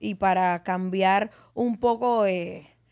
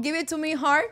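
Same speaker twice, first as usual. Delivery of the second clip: mock English; 5 semitones higher than usual.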